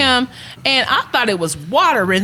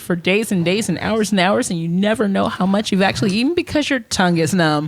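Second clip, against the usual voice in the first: mock TV commercial voice; ad read. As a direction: pitch it like a cheesy ad. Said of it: "quick commercial on Rumplemans".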